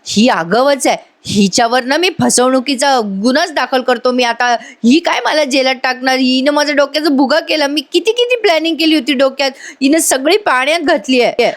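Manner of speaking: mild acted annoyance, pitch climbing; retold exasperation. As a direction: imitate a man fed up and ranting. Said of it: "चिडतो आणि म्हणतो".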